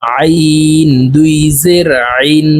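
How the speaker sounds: আইন with a pressed ain from mid-throat; throaty Arabic ain. Shown as a demonstration. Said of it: "হলকের মধ্যখান থেকে চাপ দিয়ে আইন হরফ উচ্চারণ".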